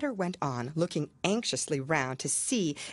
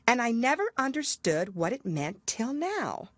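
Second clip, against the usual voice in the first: Alice's voice; 5 semitones higher than usual. Acted.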